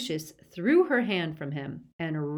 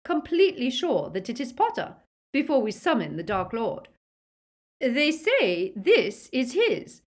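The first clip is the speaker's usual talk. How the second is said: high, coolly insistent; higher-voiced cautious wife; cold, clear Narcissa; 8 semitones higher, 5 dB louder than usual. A narrator's reading. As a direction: lay out the doubt in a cold, clear voice. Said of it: "in her cold, clear voice".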